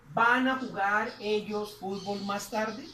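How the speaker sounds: slow, rising teacher question; slow model question. Shown as a demonstration. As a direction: read the translated question slowly. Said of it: "Estaríamos diciendo ahí".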